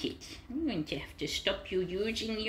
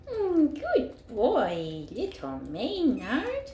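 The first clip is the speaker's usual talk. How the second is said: tender praise; slower than usual. Real, not acted. Slow praise to kitten.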